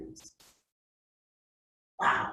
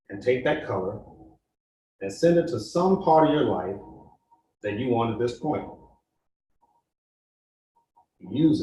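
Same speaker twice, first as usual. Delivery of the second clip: guided meditation. Acted. Guide leading the group through a meditation, calm and steady. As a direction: ease the group into the feeling, unhurried.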